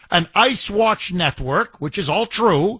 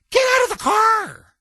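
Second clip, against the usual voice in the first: shouted command; 14 semitones higher than usual. Retold or imitated. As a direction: yell it like a cop at a traffic stop.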